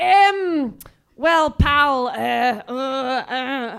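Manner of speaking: bad Glaswegian accent, very slow, hesitant, stalling. Retelling a father's answer at a supermarket checkout: bad imitation of a Glaswegian accent. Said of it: "I'm really murdering his accent here".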